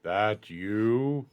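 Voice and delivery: lightly voiced creature, words spaced apart; short, laboured creature sentences; Groon. Game master's Groon accuses someone of the smell, creature voice. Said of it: "He looks and go".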